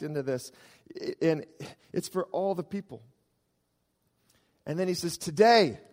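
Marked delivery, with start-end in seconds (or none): 5.2-5.8 ringing proclamation. Acted. Preacher proclaims angel's word.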